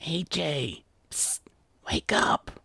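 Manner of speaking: urgent hushed whisper to wake someone. A narrator's reading. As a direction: whisper it, softly nudging a sleeper awake. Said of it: "Rainbow whispered".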